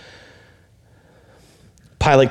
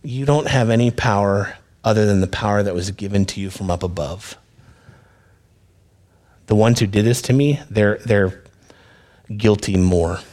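calm Jesus; 3 semitones lower than usual. Acted. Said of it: "Jesus probably so calmly says".

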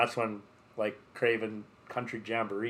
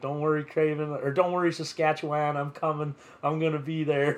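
imitated Southern accent, pitched higher; 4 semitones higher, 3 dB louder than usual. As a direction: reassure the crowd in a mock Southern accent. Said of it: "southern accent".

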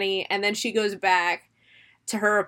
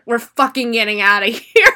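laughing; 6 dB louder than usual. Retold or imitated. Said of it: "Sam's like".

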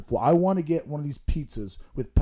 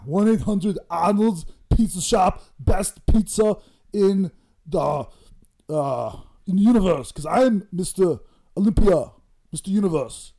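louder hammed-up ad read; hyped ad; 5 semitones higher, 5 dB louder than usual. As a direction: shout out the number like a promo. Pizza shop ad read.

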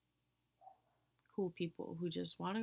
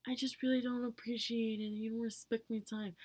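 mocking complainer; 4 semitones higher, 4 dB louder than usual. Mimics people complaining about lateness.

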